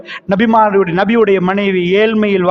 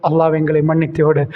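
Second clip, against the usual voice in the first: closing prayer; 3 semitones lower than usual. Acted. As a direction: close with a humble prayer.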